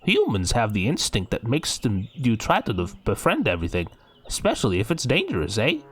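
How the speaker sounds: light mock Canadian reading; attempted Canadian accent. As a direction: read with a hint of Canadian, ending on eh. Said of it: "time's up for impressions".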